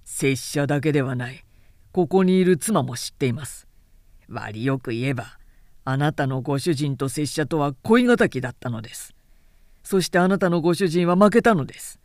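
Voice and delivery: stiff formal samurai. Acted. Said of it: "あざけるように鼻で笑った".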